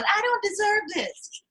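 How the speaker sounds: high, slow whiny mock of self-doubt; mock her as a pitiful doubter, slowly; mock self-pity. Mocking Lisa's imagined self-doubt, a whiny slow voice. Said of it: "Lisa is not going".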